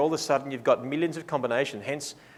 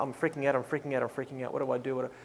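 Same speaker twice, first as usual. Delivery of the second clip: mock freaking out; 3 semitones lower, 8 dB quieter, faster than usual.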